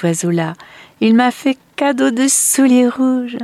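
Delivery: high, bright-eyed gushing; overjoyed girl. Acted. Little Marlène tells family of red shoes, overjoyed. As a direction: gush happily about the gift.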